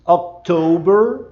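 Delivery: October with a curled R, rising; October americano; American October. Shown as a demonstration. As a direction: bend the R in October. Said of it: "e entorta aqui o R".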